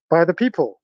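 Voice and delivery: muffled behind a face mask; talking through a mask outdoors. Real, not acted. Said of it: "I'm talking through a face mask right now".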